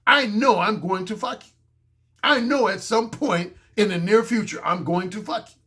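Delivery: matter-of-fact certainty; plainly self-assured; very confident. Acted. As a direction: state it as a sure thing. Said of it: "I just very confidently say".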